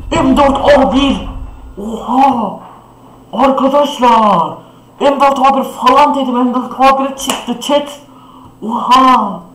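high, loud, stretched-out cry of joy; excited shout. Real, not acted. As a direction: yell it in disbelief at the drop. The guessed gun actually drops.

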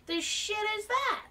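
high, rising bewildered question; baffled. Real, not acted. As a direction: squeak it out confused. Confused by objective.

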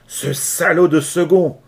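slow, loud, rasping shout; hoarse voice. Acted. Leach slyly naming the mate, hoarse. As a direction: rasp it out with cunning. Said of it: "d'une voix rauque".

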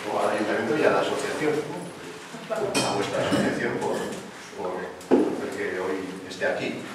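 hoarse with a cold, a bit husky. Real, not acted. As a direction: speak through a croaky cold voice. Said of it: "perdonadme esta voz de Pato Donald que tengo".

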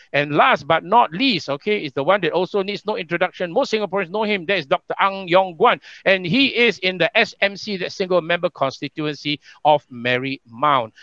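lifted last-guest introduction; MC announcer. Real, not acted. Host introducing the last panelist, projected MC delivery. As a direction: present the final name with a little fanfare.

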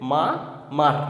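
মা, a long break, then মার; broken into syllables. Shown as a demonstration. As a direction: give মা and মার one beat each. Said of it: "ভেঙে ভেঙে উচ্চারণ করে পড়তে হবে".

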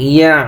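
throat-squeezed ain ending on "ইয়া"; throaty ain. Shown as a demonstration. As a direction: press the end of "ইয়া" into the throat. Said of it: "আইনের উচ্চারণ গলার ভিতরে".

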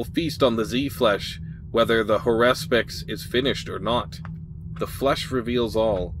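measured, dramatic game-text narration; storyteller reading aloud with deliberate emphasis; story narration. A narrator's reading. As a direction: read it like an adventure tale.

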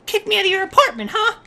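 quick, contained indignant question; simmering indignation. Pretend. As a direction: start the confrontation without raising your voice. Confronting friend, first take.

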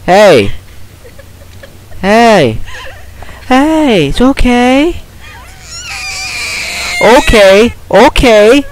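very high, loud, drawn-out cries of panic; real startled shrieking; panicked screaming. Real, not acted. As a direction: scream pleadingly at the top of your voice. Panicked at crying baby jump scare.

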